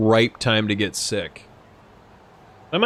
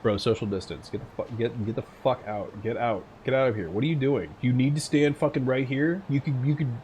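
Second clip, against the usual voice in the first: softer, muttered mock telling-off; annoyed telling off; 6 dB quieter than usual. Streamer telling off a man too close in line, softer annoyed. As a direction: grumble at a stranger crowding you. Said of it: "I'll just be like".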